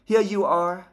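Mrs Weasley's voice. Acted.

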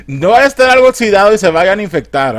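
high, loud mock alarm; hammed-up fretting parent. Parent warning children off rusty junk, hammed-up alarm.

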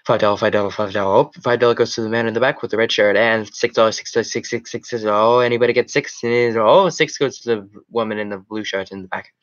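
fast, rolling auctioneer patter. Pretend. Streamer playing auctioneer calling bids to a crowd, rapid patter. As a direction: rattle off bids without a breath.

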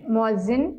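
मुअज्जिन said with a clear 'i' in the last syllable, mu-az-zin; teacher stating the right form मुअज्जिन; मुअज्जिन ending in -zin; correct pronunciation. Shown as a demonstration. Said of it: "सही लफ्ज़ है".

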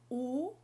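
"U" as French ou like "oo"; "U" with back rounded "oo"; French ou sound. Shown as a demonstration. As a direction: round "U" as in "pour". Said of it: "Você percebeu uma diferença nesses dois sons".

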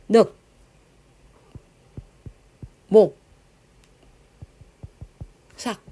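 늑, 목, 삭 as isolated syllables; demonstrated pronunciation. Shown as a demonstration. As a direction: cut off each of 늑, 목, 삭 with long pauses. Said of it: "이렇게 발음합니다".

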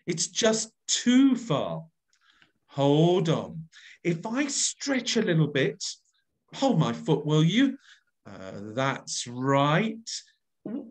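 straining to reach, then slipping and crying for help; hanging on for dear life. Shown as a demonstration. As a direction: act out a climb that nearly goes wrong. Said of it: "You listen to me".

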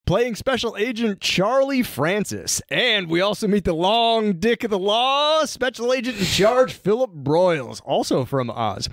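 punchy mock-dramatic episode summary; comic recap narration. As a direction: read the recap with showy, stretched emphasis.

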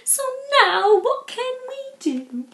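loud, slow, roared "I'm really bored". Acted. Bushy roaring at the others about being bored. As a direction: roar out your boredom. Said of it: "Then Bushy roared".

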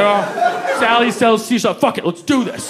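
words through a wad of gum; mouth full of gum. Retold or imitated. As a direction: chew through the line with gum. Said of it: "nine pieces of gum in my mouth".

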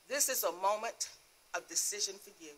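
soft, hushed word from God; quiet divine voice. Retold or imitated. The Lord counsels a crying believer at night, quiet and grave. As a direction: say it softly, letting the end drop away. God speaking gently in testimony.

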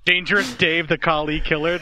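B-movie title. Pretend. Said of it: "a title that needs to be used in a fucking low-budget B movie".

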